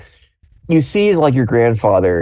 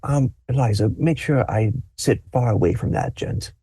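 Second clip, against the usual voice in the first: softer muttered aside; confiding aside; 6 dB quieter than usual. Acted. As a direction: lean in and confide quietly. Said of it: "He goes".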